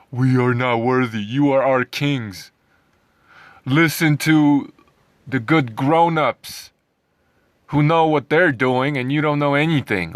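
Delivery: lightly voiced grovelling follower, slowed on the first lines; sneering mimicry of people who bow to authority; mocking meek vegans. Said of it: "usually just an appeal to authority".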